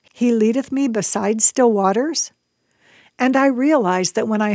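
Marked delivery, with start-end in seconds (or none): 0.1-2.3 lightly imitated toddler sing-song, "still" lifted with a rise; a hint of a little girl's odd recital tune; toddler's sing-song. Mother recalling her toddler reciting the psalm, light sing-song. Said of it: "that tiny little baby voice saying".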